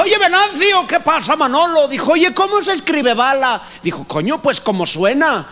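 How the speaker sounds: high, Spanish Galician voice; Galician Spanish accent. Retold or imitated. Two gallegos chatting in a high Spanish accent. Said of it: "el gallego".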